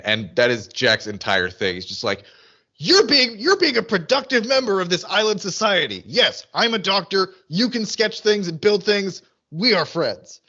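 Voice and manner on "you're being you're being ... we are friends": higher, emphatic mock pep talk; earnest Jack. Podcaster as Jack praising Michael, earnest mock voice. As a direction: declare it with mock earnest approval. Acting out Jack's earnest approval.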